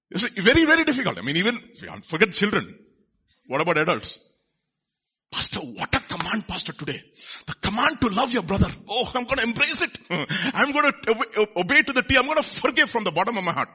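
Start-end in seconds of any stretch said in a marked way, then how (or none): 5.3-13.7 mock eagerness. Acts overjoyed churchgoer receiving a command.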